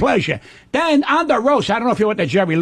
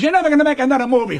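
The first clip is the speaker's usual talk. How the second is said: nagging wife; 4 semitones higher, faster than usual. Retold or imitated. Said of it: "She says".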